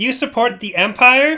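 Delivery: said really loudly. In a role-play scene, a character asks a passerby a question, saying it really loudly. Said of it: "I just say really loudly".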